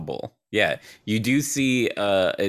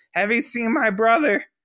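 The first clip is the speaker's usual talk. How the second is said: shrill, very high yelling shout; 14 semitones higher, 4 dB louder than usual. Game master voicing an intruder climbing through the window, yelling. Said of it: "he's yelling like".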